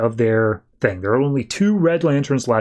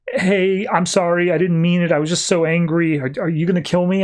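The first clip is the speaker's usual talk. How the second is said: mild pleading in a higher voice; acted apology; 4 semitones higher than usual. Cured snake begs forgiveness of its captors, mildly pleading apology. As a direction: apologize meekly, pitched up a little.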